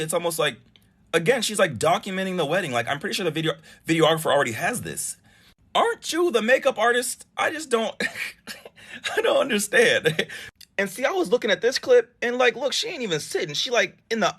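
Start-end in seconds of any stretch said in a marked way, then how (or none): 5.7-10.3 incredulous. Real, not acted. Host questions the guest's behavior, laughing.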